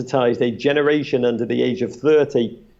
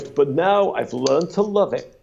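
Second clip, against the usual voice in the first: imitating Brokaw; slower than usual. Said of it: "he goes".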